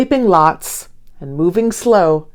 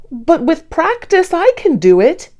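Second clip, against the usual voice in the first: higher, earnest claim of I can do it; determined Hank; 8 semitones higher than usual. Acted. Sloth Hank tells doubtful Dee he can, determined. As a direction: insist you can, lifting on practice. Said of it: "Hank claims".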